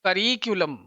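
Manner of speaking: करिक्यूलम with the stress on the second syllable, रि; correct pronunciation. Shown as a demonstration. Teacher giving correct करिक्यूलम for the exam, clear demo. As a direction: say करिक्यूलम as kə-RI-kyu-ləm. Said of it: "ये stress आ गया".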